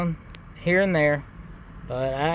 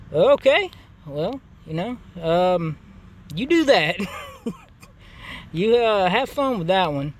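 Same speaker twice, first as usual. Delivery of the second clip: mock dismissive; 2 semitones higher than usual. To the neighbor threatening cops, mock dismissive.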